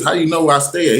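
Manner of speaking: high, pointed question; suspicious disbelief. Retold or imitated. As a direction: press him on how he found you. Repeating bigger question.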